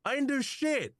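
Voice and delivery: very high, whining robot; whiny robot voice. Acted. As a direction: squeal it, way up high. Thoven voiced by GM.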